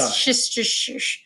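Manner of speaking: Worcestershire slurred into a string of sh sounds; tongue-tied attempt at "Worcestershire", all sh-sh-sh; botched pronunciation. Real, not acted. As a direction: stumble slowly through Worcestershire, losing it in shushing. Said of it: "I can't say it".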